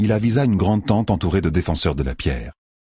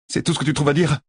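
grinçant; 10 semitones higher, faster than usual. A narrator's reading. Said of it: "grinça Nineveh".

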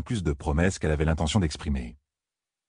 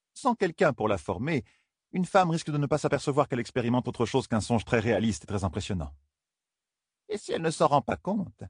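higher, calm elder explaining; wise woman voice; 6 semitones higher than usual. Acted. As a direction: explain it gravely. Matriarch explains.

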